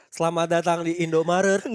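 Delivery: perky robotic cashier greeting; sing-song shop announcement; chipper text to speech voice. Pretend. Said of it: "kasirnya pakai suara A I".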